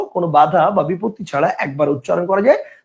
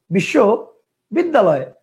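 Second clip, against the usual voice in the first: two-part pronunciation; much slower than usual. Shown as a demonstration. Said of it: "কেউ উচ্চারণ করতো".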